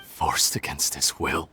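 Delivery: scornful echo. Acted. Mocking the others' belief.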